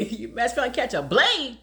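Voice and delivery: chuckling through a mock warning; laughing threat. Real, not acted. Joking to viewers, laughing as she warns.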